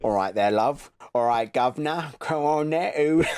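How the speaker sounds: exaggerated English greeting accent; hammed-up British accent. Teasing an American friend about accents, hammed-up British accent. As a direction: ham up the British "love" and "governor". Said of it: "Great accent".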